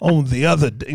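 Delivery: lightly voiced mock preacher; a hint of playful pulpit delivery. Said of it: "That's like a preacher voice".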